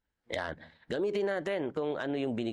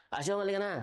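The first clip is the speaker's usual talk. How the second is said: calling a servant; 9 semitones higher, much faster than usual. Retold or imitated. Master calls second servant.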